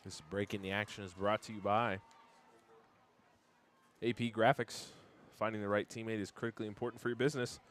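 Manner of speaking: smooth, steady radio ad read; sponsor ad read. Acted. Announcer reads the graphics sponsor's spot in a break, ad read. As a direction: read the sponsor copy with a light sell.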